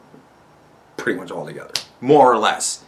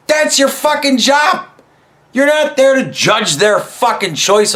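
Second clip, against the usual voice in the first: angry shout; 4 semitones higher than usual. Real, not acted. Ranting at the mall Santa about his job, shouting. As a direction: yell it out, furious at him.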